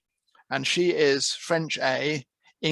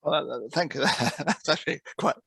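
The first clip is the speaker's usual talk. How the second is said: talking through real laughter; amused laughter. Real, not acted. Coach reacting to a listener's remark on Brits, laughing. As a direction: laugh while thanking the questioner.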